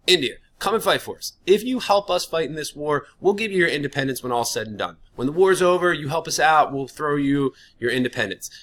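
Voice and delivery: lightly voiced British official pleading for help; British empire voice. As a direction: coax India like a smooth British official. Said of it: "this is the British speaking".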